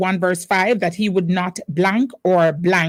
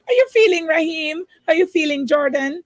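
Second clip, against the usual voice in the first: excited greeting; 7 semitones higher than usual. Real, not acted. Host greets quiz contestants.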